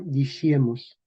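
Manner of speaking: Diciemos as di-SHIE-mos; medieval pronunciation. Shown as a demonstration. Teacher repeating an example, medieval sh pronunciation. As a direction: put a sh in Diciemos. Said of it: "el sonido sh".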